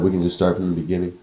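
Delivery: blocked nose, teary voice; stuffed up. Real, not acted. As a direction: talk through a stuffy nose. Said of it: "I sound like I'm about to cry and we're just stuffed up".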